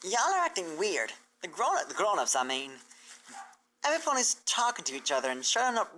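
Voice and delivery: a hint of a country filly complaining; Apple Bloom's voice. Apple Bloom voices her suspicion.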